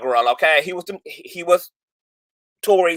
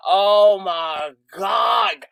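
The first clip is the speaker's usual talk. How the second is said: slow, stretched stunned exclamation; shocked; much slower than usual. Real, not acted. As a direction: let the shock pull it long. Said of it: "I can't take it".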